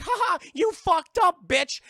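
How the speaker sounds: high, loud villain taunt; hammed-up gloating shout; gloating killer chair. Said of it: "the chair is like".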